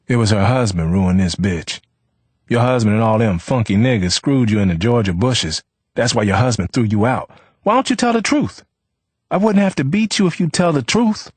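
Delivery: loud, rising to high accusation; cruel taunting. A narrator's reading. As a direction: jab each insult at her. Rufus abusing Leona.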